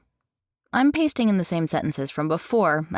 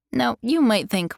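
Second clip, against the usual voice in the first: normal talking voice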